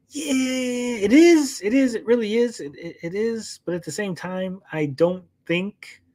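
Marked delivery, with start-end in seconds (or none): 0.1-3.6 much higher, sing-song sarcastic agreement; mock agreement. Streamer mockingly agreeing with critics, high sarcastic voice. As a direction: chirp along with them like it's obvious. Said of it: "And I'm like".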